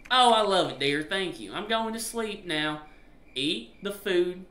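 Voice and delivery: high wifely voice, slowing down; sweet wife. Acted. Wife thanking husband before sleep, sweet high voice. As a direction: put on a high, drawn-out wife voice.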